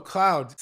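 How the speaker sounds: "Cloud" said slowly with a hard K and falling tune; enunciated. Shown as a demonstration. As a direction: stress every sound of "Cloud". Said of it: "Can you spell that?".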